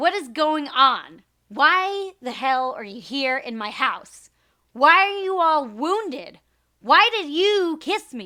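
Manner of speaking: mildly irritated tone. Performing a line meant to be screamed, spoken slightly annoyed, not screamed. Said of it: "slightly more annoyed than normal speaking".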